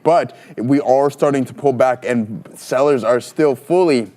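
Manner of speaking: hiccuping mid-sentence; hiccups. Real, not acted. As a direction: talk through the hiccups. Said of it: "giving me the hiccups here".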